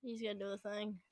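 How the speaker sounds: whispering. Real, not acted. Aside to the chat about opponent.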